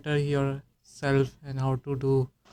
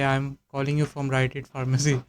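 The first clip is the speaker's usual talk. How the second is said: slow call script; much slower than usual. Shown as a demonstration. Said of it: "जैसे Rite Aid हो गई".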